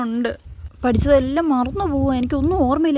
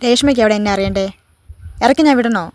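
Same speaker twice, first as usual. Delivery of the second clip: a touch louder teacher warning; mild scolding; 5 dB louder than usual. Acted. Teacher warning a chatty student, mild scolding. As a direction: warn her to stop talking.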